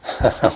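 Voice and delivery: short, acted grandmotherly laugh; stifled chuckle. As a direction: let out a small held-back chuckle. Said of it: "almost started to laugh".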